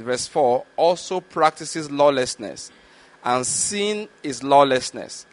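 slow, measured reading of the verse; scripture reading. Acted. Preacher reading scripture to the congregation, slow and measured. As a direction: read the Bible passage deliberately to the congregation.

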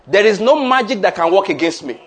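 loud, emphatic, stress on no; a rousing pulpit declaration. Shown as a demonstration. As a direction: lead the church in declaring. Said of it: "Let's declare again".

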